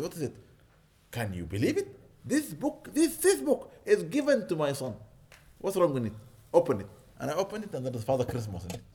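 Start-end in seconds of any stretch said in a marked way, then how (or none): 1.1-6.9 mock indignant mother, pitch up high on this book. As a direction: voice her outrage rising. Angry mother quoted.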